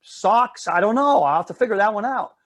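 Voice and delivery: a hint of a nervous little girl; worried little girl. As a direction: play the good daughter fretting to her sister. Sandra voiced in the story.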